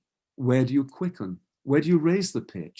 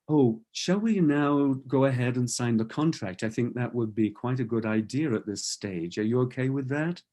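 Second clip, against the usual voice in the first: smooth continuous voice. Shown as a demonstration. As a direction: keep one unbroken line so the listener stays with you. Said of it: "I've deliberately used that continuous voice".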